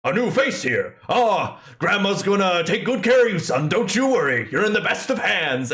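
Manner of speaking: lightly voiced old hound, grandmotherly; a kindly old dog cooing over a baby; old dog Herbert voice. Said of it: "this dog goes".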